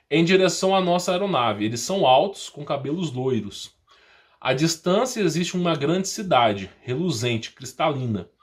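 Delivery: ordinary delivery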